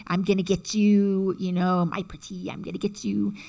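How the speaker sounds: a hint of the cackling witch taunting; Wicked Witch threat.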